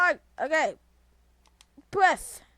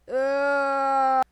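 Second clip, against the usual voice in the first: loud groan; 2 semitones higher, 8 dB louder than usual. Real, not acted. Yelp while playing game.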